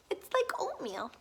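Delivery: soft unvoiced whisper; whispered aside. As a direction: lean in and whisper it.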